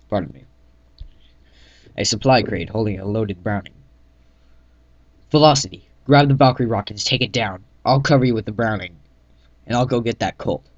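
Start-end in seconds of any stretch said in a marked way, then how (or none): 5.3-10.7 loud commands over gunfire; shouted orders. Acted. Narrator orders Velocity to take down gunship, shouting. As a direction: command your squad mid-battle.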